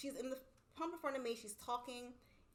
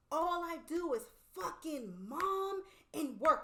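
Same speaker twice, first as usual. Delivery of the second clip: mock distraught outburst; 6 semitones higher, 6 dB louder, much slower than usual. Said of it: "she just starts screaming".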